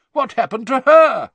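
high, loud startled question; alarmed surprise. A narrator's reading. Bagman spotting the stunned elf, alarmed.

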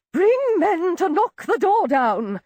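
shrill out the order; high, piercing demand. A narrator's reading. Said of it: "shrilled an aunt".

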